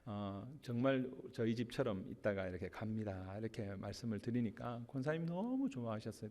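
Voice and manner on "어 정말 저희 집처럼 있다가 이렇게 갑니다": soft, sincere farewell thanks. Retold or imitated. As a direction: thank her gently from the heart. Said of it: "제가 진심으로".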